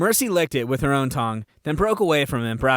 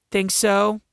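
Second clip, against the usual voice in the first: sweetly; 7 semitones higher than usual. A narrator's reading. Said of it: "asked Arya sweetly".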